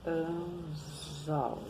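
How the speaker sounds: "Anzol" ending like "anzou". Shown as a demonstration. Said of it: "que também tem som de U". ("Anzol" com som de U no final)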